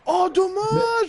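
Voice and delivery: high, drawn-out fake sympathy; mock pity. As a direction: stretch out a sarcastic dommage. Teasing after scoring.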